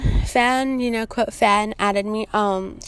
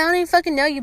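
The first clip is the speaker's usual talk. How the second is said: indignant protest; 6 semitones higher, much faster than usual. Retold or imitated. Repeats the acted protest.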